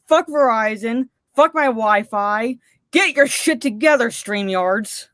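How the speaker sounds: fed-up swearing rant; real rant. Real, not acted. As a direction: vent the frustration, spitting each curse. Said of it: "Yes, I'm ranting".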